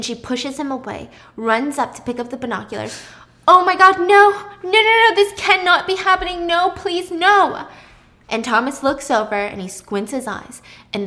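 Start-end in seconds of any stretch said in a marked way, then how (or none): 3.5-7.7 loud, high cries of disbelief; horrified. Acted. Pippa seeing the scene through binoculars, horrified. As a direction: beg for it not to be true. Acted horror at what she sees.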